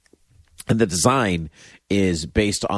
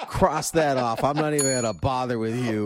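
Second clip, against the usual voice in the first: higher-pitched playful brush-off; mock dismissive; 4 semitones higher than usual. Host pretending to drop a segment, mock dismissive. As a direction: wave them away as a joke.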